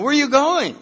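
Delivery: high, loud plea with a laugh; high pleading. Retold or imitated. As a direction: beg them to stay, laughing. Begging them not to leave.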